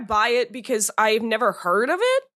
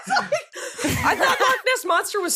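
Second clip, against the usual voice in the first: laughing; 14 semitones higher, slower than usual. Real, not acted. Laughing at the correction.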